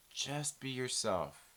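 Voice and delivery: a quiet, heavy Just be yourself; low slow soft advice. Shown as a demonstration.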